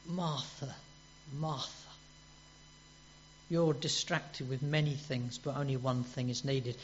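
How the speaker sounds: soft, tender rebuke; quietly voiced Jesus, gently chiding; gentle Jesus. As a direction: hush it like a loving correction. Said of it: "do you feel that, what Jesus is doing there".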